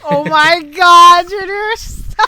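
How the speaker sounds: loud, slow, laughing plea to stop; half-laughing groan of disbelief; laughing protest. Real, not acted. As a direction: crack up while begging him to stop. Friend reacts to joke.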